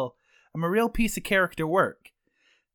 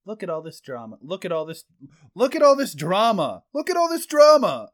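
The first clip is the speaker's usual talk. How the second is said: dad voice; 3 semitones higher, 6 dB louder than usual. Acted. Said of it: "just talk like a dad".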